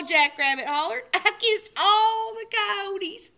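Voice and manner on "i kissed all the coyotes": gleeful boast. Acted. Triumphant Jackrabbit.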